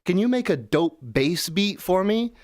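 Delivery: high, put-on eager request; mock naive user. Clueless user asking Samuel the AI for a beat, mock-naive. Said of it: "It's like".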